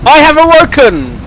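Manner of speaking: loud, high, hammed-up villain proclamation; mock dramatic awakening. Reader jokes on the story title "Awoken", hammed-up proclamation. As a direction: boom it out like a risen villain, tongue in cheek. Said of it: "Sorry, bad joke".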